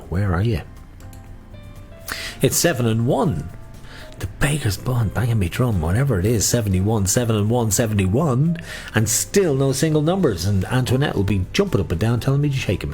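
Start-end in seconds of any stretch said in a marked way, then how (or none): 2.4-10.4 sing-song number calling; bingo caller. Acted. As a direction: lilt each number like a bingo hall.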